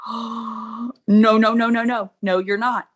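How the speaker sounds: half-laughing alarm, begging him not to; mock panic. Sees ring coming, panics.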